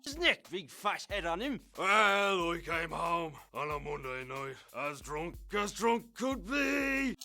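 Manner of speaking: an Irish drinking-song line in a put-on accent; a touch of Irish folk singer. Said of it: "it does sound, uh, kinda Scottish".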